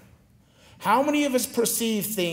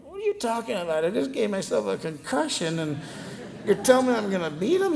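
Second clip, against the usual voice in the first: incredulous disbelief; 3 semitones higher than usual. Retold or imitated. Stunned reply to coach after concussion.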